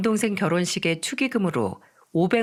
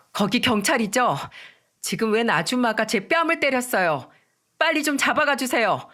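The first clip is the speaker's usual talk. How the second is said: mildly raised voice, pitch climbing; 4 semitones higher than usual. Acted. Daughter-in-law reporting a slap to police, in a raised voice. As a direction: report it urgently, pitch rising to the end. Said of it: "그리고 큰 목소리로 말했죠".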